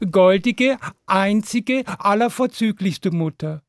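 high, slow, drawn-out wheedling; pleading seventh child. A narrator's reading. Seventh child begging mother for pancake, slow high pleading. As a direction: lay each flattering word out slowly. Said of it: "das siebte Kind sagte".

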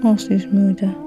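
normal talking voice

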